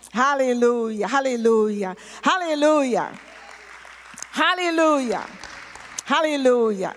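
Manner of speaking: emphatic, repeated hallelujahs; praise shout. Real, not acted. Preacher leading the church in thanks, praise shout. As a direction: proclaim it to the whole congregation.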